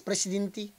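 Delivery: Presidente said as presidinti, end vowels turned to i; imitating accent. Reactor mimics rapper's accent on Presidente, light imitation. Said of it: "oh, di ba?".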